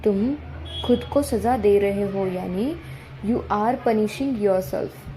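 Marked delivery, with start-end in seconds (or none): 3.3-5.0 slow model reading. Shown as a demonstration. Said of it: "teacher models the sentence slowly".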